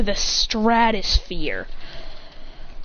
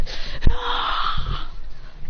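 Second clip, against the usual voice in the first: high pained cry; 13 semitones higher than usual. Acted. Fighter cries out, hand bleeding.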